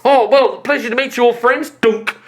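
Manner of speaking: high, loud friendly merchant voice; cheerful greeting; friendly shopkeeper. Acted.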